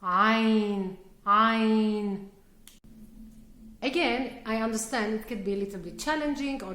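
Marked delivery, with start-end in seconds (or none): 0.0-2.3 Ain said clearly with throat tension; name the letter Ain, stressing the throat sound. Shown as a demonstration. Teacher naming the letter for students. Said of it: "the Arabic letter ah".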